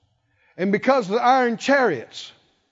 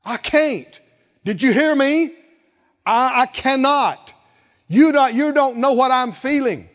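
defiant complaint; 3 semitones higher, 4 dB louder than usual. Retold or imitated.

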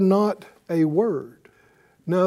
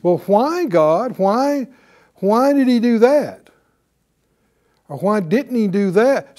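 higher, louder indignant demand; accusing tone; 4 semitones higher, 3 dB louder than usual. Shown as a demonstration. Preacher showing the accusing tone to the congregation, higher and indignant. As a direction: throw the question at God like a charge. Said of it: "Can you hear it in the tone?".

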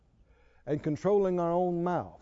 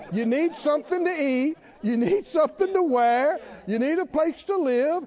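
fervent preaching; 8 semitones higher, 5 dB louder than usual. Acted. Preaching at full force.

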